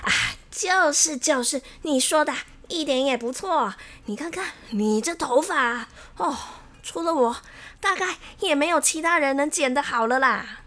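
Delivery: lightly voiced cocky barber; boastful barber Xiao Wang. Xiao Wang flatters himself over a customer's hair, boastful.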